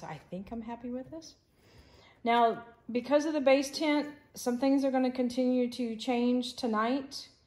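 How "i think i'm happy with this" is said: hesitant, unsure, much quieter. Looking over the work just done, pointing out own doubt, hesitant and unsure. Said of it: "Hear the hesitation in my voice".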